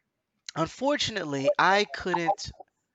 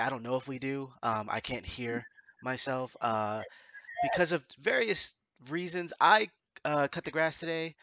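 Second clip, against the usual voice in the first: stuffy, allergic nose; blocked nose. Real, not acted. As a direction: talk through a blocked nose. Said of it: "the fact that I'm allergic to grass and everything is making my nose do all these weird things".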